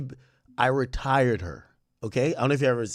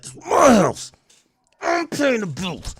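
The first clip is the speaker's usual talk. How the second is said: high, loud defiant outburst, slowing at the end; what he wishes he'd say; 11 semitones higher, 6 dB louder, slower than usual. Retold or imitated. Son imagining telling his mom off, high and loud. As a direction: stand up to mom loudly. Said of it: "I really wanna be like".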